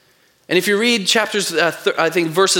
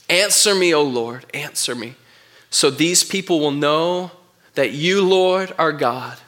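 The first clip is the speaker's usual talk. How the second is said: pleading prayer; 3 semitones lower than usual. Acted.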